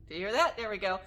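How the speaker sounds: usual speaking voice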